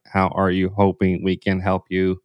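stiff, robotic sales script. Retold or imitated. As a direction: read it like a robot. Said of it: "you sound like a robot".

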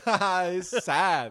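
put-on chuckle leading into a mournful answer; laughing while sad. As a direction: imitate laughing through sad news. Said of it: "still laughing at the beginning of every question".

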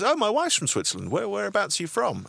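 sweetly springing the trap; dad pressing with mock interest; dad's friendly trap. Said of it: "And my dad goes".

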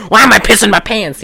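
mock bewildered rant; crazy person. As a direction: imitate a confused, raving crank. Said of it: "that's how he's talking".

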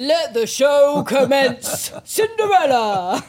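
slow, loud, proud school-play king; forcing a deep voice. Shown as a demonstration. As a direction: boom it out like a child king, slowly. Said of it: "give us your best king".

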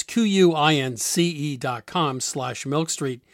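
slow, letter by letter; slow spelled-out address. Shown as a demonstration. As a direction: spell it out slowly for listeners. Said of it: "spelling out the web address".

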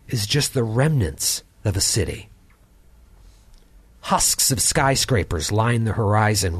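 game master narration. Acted. GM narrates action.

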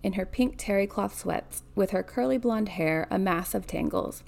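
measured read-aloud narration; story narration. A narrator's reading. Reader telling of a granddaughter by the bed, story narration. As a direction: read the novel out evenly.

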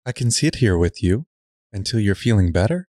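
sweet nothings. Acted. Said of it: "cooed sweetly".

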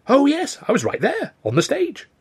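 very high, eager insistence; thrilled youth. Acted. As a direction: pipe up proudly, pitch right up. Thrilled youth boasts he was there.

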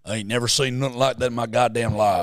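mock American accent. Setting a line to copy, put-on American accent. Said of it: "None of the impressions were right".

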